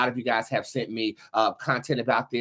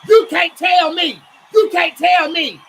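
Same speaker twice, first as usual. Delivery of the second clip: rising, ever louder preaching shout; passionate shouting; 12 semitones higher, 9 dB louder than usual. Real, not acted. To her viewers about the house that survived, a rising passionate shout. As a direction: build from fervent to full-throated. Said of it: "I got a little passionate there".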